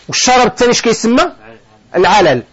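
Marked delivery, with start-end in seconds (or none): none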